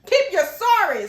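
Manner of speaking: loud, high, drawn-out dismissal; hammed-up outrage, stretching every word; emphatic rejection. Repeated, emphatic rejection of apology.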